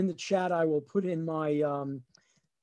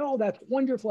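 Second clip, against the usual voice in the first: higher, lilting delight; delighted mother; 6 semitones higher than usual. Retold or imitated. Mother hearing of son's scholarship, delighted. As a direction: imitate a pleased mother.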